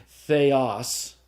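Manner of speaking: theos slowly, stress on final OS; stress on accented syllable. Shown as a demonstration. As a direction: say "theos" as the-OS, deliberately. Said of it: "The grave is the accent that goes down".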